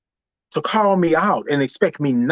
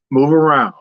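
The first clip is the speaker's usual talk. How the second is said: inner voice; 4 semitones lower, 4 dB louder than usual. Retold or imitated. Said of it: "Myself say".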